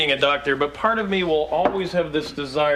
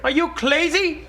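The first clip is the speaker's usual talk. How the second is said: high, slow, laughing disbelief; incredulous; 11 semitones higher than usual. Acted. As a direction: scoff at the price. Outrageous asking price.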